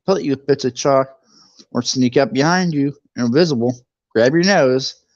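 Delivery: ordinary delivery, nothing marked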